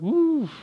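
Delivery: long high whoop of dismay; high drawn-out "woo". Acted. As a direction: let out a high, falling "woo". Reacting to troubles down here.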